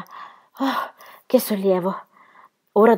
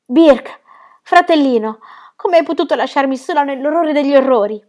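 despairing plea; 6 semitones higher, 6 dB louder than usual. Acted. Ronia despairs, alone with harpies.

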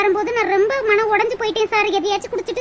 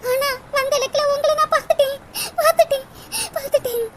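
tearful; 3 semitones higher than usual. Acted. Tearful confession to lover.

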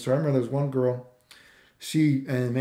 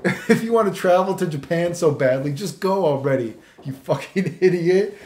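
mock angry; 3 semitones higher, 5 dB louder than usual. Retold angry comment, laughing.

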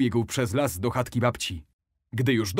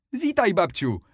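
with a smile; 8 semitones higher, 4 dB louder than usual. A narrator's reading. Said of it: "z uśmiechem".

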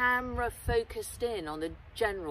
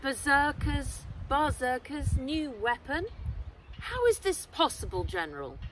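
shaky; 5 semitones higher than usual. Acted. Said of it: "her voice shaky".

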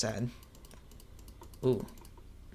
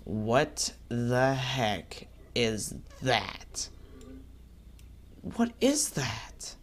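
slow bewildered; much slower than usual. Real, not acted. Spots strange creature.

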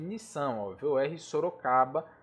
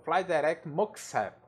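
radio English. Shown as a demonstration. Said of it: "eu falo".

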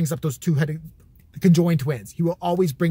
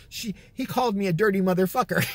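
higher imitated Irish old woman; Irish accent; 4 semitones higher than usual. Irish old lady reporting an insult, light Irish accent. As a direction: complain in a light Irish lilt. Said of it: "She was Irish".

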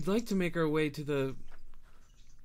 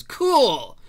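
much higher, shouted delight; excited kid; 13 semitones higher, 12 dB louder than usual. Acted. GM voicing a kid thrilled by the fight: a high, loud squeal. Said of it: "one of the kids goes".

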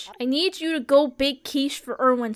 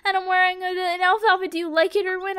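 much higher cutesy coaxing voice; sweet-talking voice; 6 semitones higher, faster than usual. Acted. Player sweet-talking her villager Erwin, high cooing. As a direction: coo at him like a pet.

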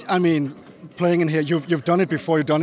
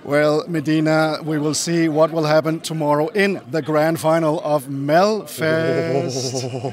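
slow, drawn-out announcer delivery; stately show-host announcement; presenter sign-off; slower than usual. Real, not acted. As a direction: build slowly to the event's name. Host's formal sign-off to the show.

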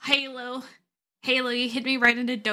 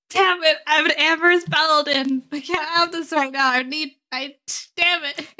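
frustrated outburst, louder and higher; raised voice; 4 semitones higher, 6 dB louder than usual. Acted. Paladin arguing with partner, raised frustrated voice. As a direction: start loud and high, break off in frustration. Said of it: "sorry for raising my voice".

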